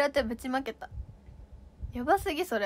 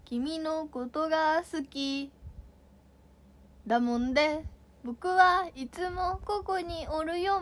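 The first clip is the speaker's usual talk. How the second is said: very slow Nagoya dialect confession, a bit higher; 3 semitones higher, slower than usual. Shown as a demonstration. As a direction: stretch out each word in Nagoya dialect. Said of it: "名古屋弁？".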